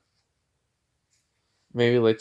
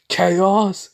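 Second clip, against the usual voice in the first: louder, higher battle cry; yell; 9 semitones higher, 6 dB louder than usual. Retold or imitated. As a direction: shout the power word. Shadow yells out Chaos.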